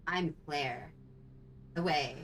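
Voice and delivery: lightly voiced heroine, closer to natural pitch; Claire. Co-streamer corrects the impression for Claire, lightly voiced Claire. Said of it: "I have to change".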